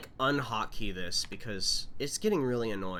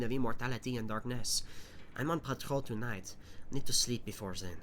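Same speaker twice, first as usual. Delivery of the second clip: measured document reading voice; reading notes aloud. Acted. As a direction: read the journal entries steadily. Reads in-game notes aloud.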